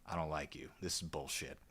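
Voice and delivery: low, soft, dismissive grumble; mock Nehru brushing off Kennedy. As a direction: mutter it like an unimpressed statesman. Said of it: "Nehru's like".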